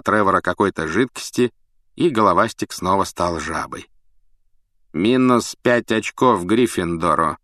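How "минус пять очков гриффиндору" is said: stern announcement. Acted. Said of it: "объявил Снег".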